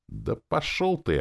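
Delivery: high-pitched irritable retort; snapping back. A narrator's reading. Spirit Тыц telling the hero off, snapping back. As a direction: snap it back, pitched right up. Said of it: "огрызнулся Тыц".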